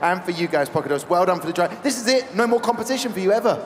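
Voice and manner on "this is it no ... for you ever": teasing. Acted. Teasing team at end.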